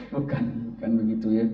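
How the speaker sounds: usual speaking voice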